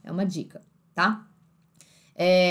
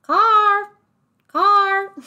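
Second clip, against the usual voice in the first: high, loud imitation of car without r; imitated British car; 11 semitones higher, 8 dB louder than usual. Teacher echoing the clip's car loudly, British accent. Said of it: "Olha como é que ele fala".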